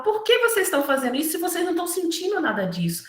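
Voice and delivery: Jesus rebuking. Retold or imitated. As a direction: scold them for their empty tears. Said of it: "Então, ele falava".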